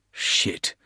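breathless whispered curse. A narrator's reading. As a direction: whisper it in shock. Porter's inner thought.

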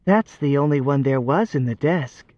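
light sing-song voice; lilting. Acted. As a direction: let it lilt innocently. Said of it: "lilted Chirk".

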